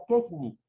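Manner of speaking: quejní said as QUEJ-ni, first syllable stressed. Shown as a demonstration. Teacher showing it as grave, quejní stressed up front. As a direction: wrongly put the accent on quej in quejní. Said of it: "Si yo la pronuncio como grave".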